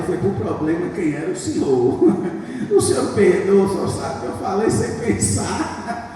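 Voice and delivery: chuckling through the prayer; laughing. Retold or imitated. Laughing while retelling prayer. (rindo enquanto pede perdão)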